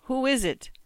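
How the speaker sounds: high-pitched questioning call. A narrator's reading. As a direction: ask it as a call from another room. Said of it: "a hoarse voice calls from another room".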